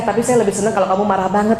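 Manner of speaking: a touch of fast, playful mock husband; teasing husband. Husband teasing his wife about her anger, lightly mocking. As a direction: tease her lightly, rattling it off. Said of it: "dia suka bercandain saya".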